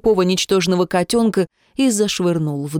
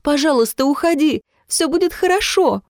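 much higher, cracking plea; voice breaking, crying out; 8 semitones higher than usual. A narrator's reading. Jemma begs Vitya to leave, high cracking cry. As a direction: beg him to leave as your voice breaks. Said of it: "срывающимся голосом прокричала Джемма".

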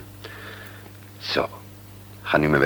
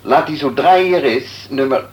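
phone call; 8 semitones higher, 4 dB louder than usual. Acted. Doctor on the phone.

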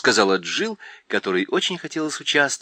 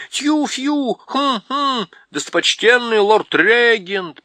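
much higher, hooting owl preamble; owl clearing throat; 11 semitones higher, 6 dB louder, slower than usual. A narrator's reading. Owl addresses the lord.

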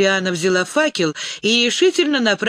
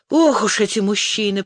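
groaning; 3 semitones higher than usual. Acted. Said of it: "простонала Лиана".

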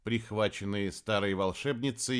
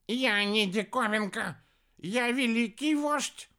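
high, slow, emphatic outrage; outraged protest; 12 semitones higher, slower than usual. A narrator's reading. Хелений objects to being called a curiosity, outraged protest. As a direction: protest high, stretching each word.

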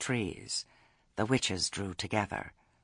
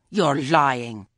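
loud, raised-pitch accusation; angry accusation; 5 semitones higher, 10 dB louder than usual. A narrator's reading. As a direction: hurl it at her angrily. Enraged Lettice accuses Granny.

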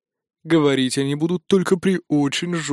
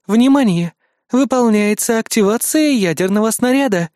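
louder, higher system alert; raised automated alarm; urgent alarm; 6 semitones higher, 4 dB louder than usual. Acted. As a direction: announce it as a rising emergency warning. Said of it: "предупредил прохладный женский голос".

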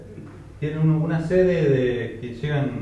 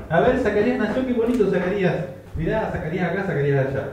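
higher-pitched mock cooing over a newborn; fussing relatives; 4 semitones higher than usual. Relatives greet the newborn Zacarías, mock excited fussing. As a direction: imitate doting visitors, starting high and settling. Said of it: "O sea, todos llegaban".

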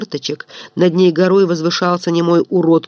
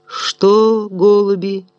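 mock heartfelt; 2 semitones higher, much slower than usual. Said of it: "душевно сказал Самсон Харитонович".

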